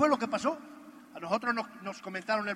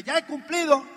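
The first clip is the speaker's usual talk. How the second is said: imitated partner; 6 semitones higher, 6 dB louder than usual. Cyclist partner answers, voiced.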